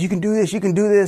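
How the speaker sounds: retold coaching from a running dad; encouraging dad. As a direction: cheer a kid along, voice lifted. Dad cheering son on bike.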